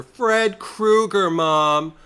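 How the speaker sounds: high, slow, drawn-out panicked wail; hammed-up terrified cry. Daughter screaming to her mom about Fred Krueger, hammed-up panic. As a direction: wail it like a melodramatic scream queen. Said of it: "clutch herself in her own kitchen".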